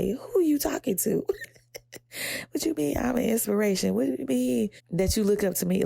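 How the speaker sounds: high, fast disbelief; incredulous. Retold or imitated. She reacts to people calling her an inspiration, high and incredulous. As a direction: act baffled that anyone looks up to you. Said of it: "And I'm sitting here like".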